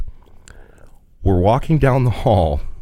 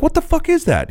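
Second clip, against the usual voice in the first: much higher, stunned question; can't believe what you're seeing; incredulous. Retold or imitated. Asking the roommate what the bag is, stunned.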